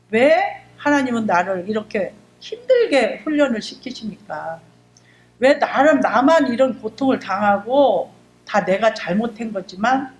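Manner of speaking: half-crying cry to God, rising loud on the why; wailing at God, pleading and loud; retold wailing prayer. Retold prayer in hardship, crying out to God. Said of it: "울부짖은 거야".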